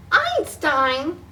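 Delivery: loud scolding call of the dog's name. Acted. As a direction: snap the name out as a reproach. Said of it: "Cece's mom scolded".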